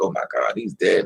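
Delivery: words choked out through tears in a crying outburst. Retelling calling the house phone with no answer: imitating own past crying. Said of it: "I'm crying".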